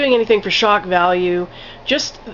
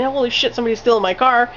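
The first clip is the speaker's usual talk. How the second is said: higher, lightly panicked mock outburst; retold freaking out; 4 semitones higher, faster than usual. Naked man in the water sees his car stolen, higher mild mock panic. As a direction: play it half-panicked, not shouted. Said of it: "like, freaking out".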